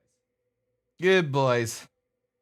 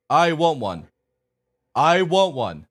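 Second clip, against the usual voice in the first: louder; 3 semitones higher, 5 dB louder, slower than usual. Shown as a demonstration. Owner showing husky what to say, raised voice. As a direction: model it loudly for the dog. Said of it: "You gotta say it louder".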